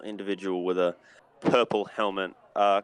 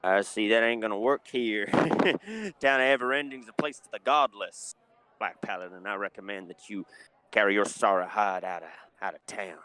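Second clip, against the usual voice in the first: bartender voice. Acted. GM holds the bartender voice.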